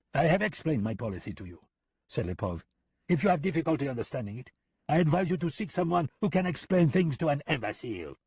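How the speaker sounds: high, mocking sing-song; smug gunman needling the American; teasing Lipov. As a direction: rub it in with fake friendliness. Lipov's character voice.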